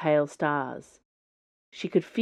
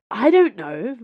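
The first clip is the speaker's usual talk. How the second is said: snapped back, louder; infuriated; 5 semitones higher, 6 dB louder, slower than usual. A narrator's reading. Viola answers Chauve in fury, infuriated. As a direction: bite the words out in frustration. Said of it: "said back, infuriated".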